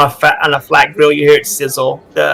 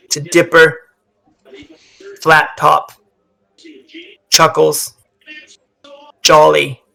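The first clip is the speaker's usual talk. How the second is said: toast to the lost; 2 semitones higher than usual. Acted. Toast naming lost crew one by one.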